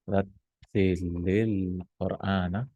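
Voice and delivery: rattilil Qur'ana drawn out slow and soft, like recitation; recited slowly. Shown as a demonstration. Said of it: "so recite the Quran".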